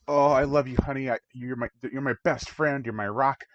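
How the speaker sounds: mock gushing sweetheart; lovey-dovey. Honeymoon couple calling each other their rock, mock lovey-dovey. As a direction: imitate a doting honeymooner, lightly hammed-up. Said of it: "Very lovey-dovey".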